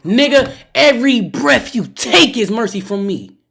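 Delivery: slow, loud and weighty; forceful declaration. Real, not acted. Streamer echoing the movie line to chat, slow and loud. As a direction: repeat the line like a vow to chat.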